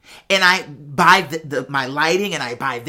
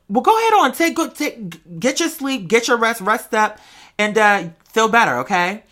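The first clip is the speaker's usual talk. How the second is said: mother's encouragement; 4 semitones higher than usual. Retold or imitated. Son voicing his mother's encouragement.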